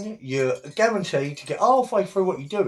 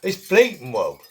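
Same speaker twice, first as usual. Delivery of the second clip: higher, louder cockney grumble; Alf Garnett impression; 6 semitones higher, 4 dB louder than usual. Doing the old sitcom bigot for the viewers, louder and higher. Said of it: "doing it, giving Alf Garnett".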